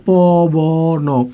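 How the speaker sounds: "প", "ব", "ন" stretched and separated; letter by letter. Shown as a demonstration. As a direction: break it into three held sounds, "প", "ব", "ন". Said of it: "বর্ণ বিশ্লেষণ করলে একটু আবার এইভাবে হয়".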